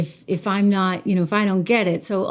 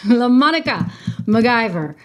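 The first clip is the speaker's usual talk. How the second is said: laughing name; 2 semitones higher than usual. Shown as a demonstration. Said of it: "I love saying this woman's name".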